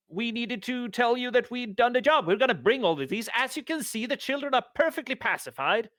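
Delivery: lightly voiced glib negotiator; smooth persuader. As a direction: talk them out of trouble, a bit high and slick. PC persuades the contractor.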